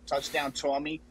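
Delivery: light Boston accent on touchdown Tommy. Shown as a demonstration. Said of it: "you gotta say it in that Boston accent".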